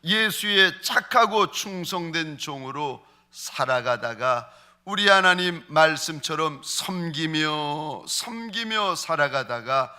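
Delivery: slow, earnest prayer voice; closing prayer. Acted. Pastor leads the congregation in closing prayer, slow and earnest.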